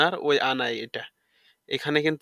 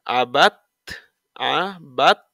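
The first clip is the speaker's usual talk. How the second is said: whispered word, a touch louder; 4 dB louder, much slower than usual. Shown as a demonstration. Teacher modeling syllables, whispered. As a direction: breathe the word out. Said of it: "তা পেশ তু".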